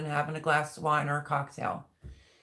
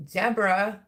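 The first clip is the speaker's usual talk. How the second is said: calling out; 4 semitones higher, 5 dB louder than usual. Real, not acted. Calling friend again, warmly.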